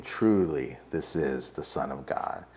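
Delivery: soft, slow and hushed, "Truly" held in reverence; hushed awe. Acted. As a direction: let the words sink in quietly, full of wonder. Preacher repeats disciples' confession.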